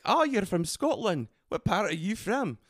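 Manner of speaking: curious question in a put-on Scottish accent; imitated Scottish accent. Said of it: "She was like".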